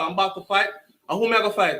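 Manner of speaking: put-on his younger self's Jamaican accent; thick Jamaican accent. Boy learns he must fight, thick Jamaican accent. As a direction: Jamaican accent, said as a kid would. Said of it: "my Jamaican accent was thick as hell".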